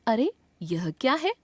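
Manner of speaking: lightly acted surprised question; mild surprise. Shown as a demonstration. Teacher gives example of exclamation mark, mildly surprised. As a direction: show a touch of surprise. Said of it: "आश्चर्य".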